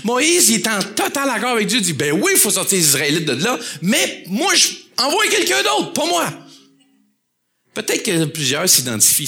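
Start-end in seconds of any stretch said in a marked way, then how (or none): 1.9-6.3 reluctant Moses. Acted. Moïse refuse, voix jouée haute.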